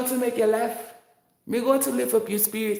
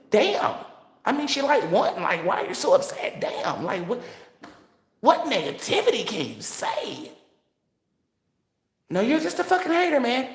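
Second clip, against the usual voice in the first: mock white-guy voice, pitched up; put-on white voice; 5 semitones higher than usual. Mocking a white guy who defends the winner, in a higher put-on voice. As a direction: camp it up as an outraged white dude. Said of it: "I put on the Y T voice".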